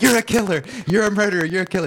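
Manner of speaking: mock accusing yell. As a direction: yell it at a stranger like a street heckler. Heckler follows you around yelling.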